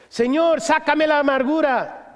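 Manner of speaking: high, slow whining prayer; whiny plea. Acted. Believer whining to God for bitterness removed, whiny. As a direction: beg like a spoiled child. Pleading prayer vs scripture reply.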